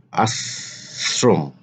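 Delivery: আশ্রম slowly as ash-rom; slow model pronunciation. Shown as a demonstration. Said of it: "আলোচনা করব শব্দের উচ্চারণ". (আশ্রম ধীরে উচ্চারণ)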